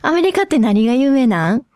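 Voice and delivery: casual Kobe-dialect question. Shown as a demonstration. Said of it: "私の神戸弁では".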